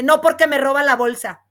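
said out loud for all to hear; a firm, loud brush-off; loud retort. Retold or imitated. Deputy snapping back at a flirting colleague, loud. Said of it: "Pero mi voz se oye tan fuerte".

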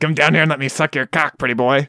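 a hint of a demon's leer; lightly voiced possessed girl, teasing. Quoting Evil Dead's demon to cohost, a mild possessed taunt. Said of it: "the possessed voice is so creepy".

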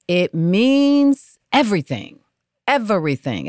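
everything sounded out long and emphatic; drawn-out everything. Real, not acted. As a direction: stretch "everything" so they feel it. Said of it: "I always sound out the word everything".

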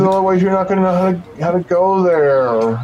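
coaxing the party to let her tag along; lightly voiced girl.

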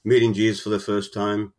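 moved, pushing "Meeting Jesus" out; emotional. Real, not acted. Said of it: "I'm getting emotional again".

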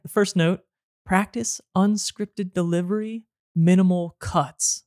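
slow, careful script reading; teleprompter read. Real, not acted. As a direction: read it word for word off the notes. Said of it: "I'm directly reading from the script".

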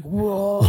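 growled "whoa", a burst of noise; imitated growl. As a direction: imitate an over-the-top sound-effect growl. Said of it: "Who was growling?".

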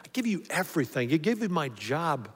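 earnest prayer, slowing near the end; quoted surrender prayer. Retold or imitated. Pastor voicing a man praying, mild earnest prayer. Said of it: "That's what he says".

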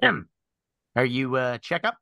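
lightly voiced bird character; hint of a talking bird; Drummond. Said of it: "and then Drummond's voice goes".

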